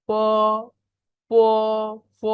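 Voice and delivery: long aspirated প, close to ফ; Pinyin p like ফ. Shown as a demonstration. Teacher models p for the class, aspirated held প. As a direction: puff air into a drawn-out প. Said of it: "পি এর উচ্চারণ হবে ফর মতো".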